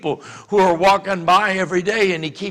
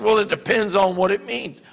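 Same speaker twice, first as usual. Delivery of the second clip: reluctant hedge. Retold or imitated. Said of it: "they're like".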